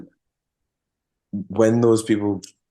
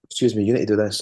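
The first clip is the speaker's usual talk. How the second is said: put-on Scottish accent; 3 semitones higher than usual. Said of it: "Like that".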